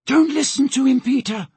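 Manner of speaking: high, urgent warning cry; shout. Acted. Molly warns Peter against her captor, urgent shout. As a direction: plead at high pitch across a distance. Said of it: "she shouted".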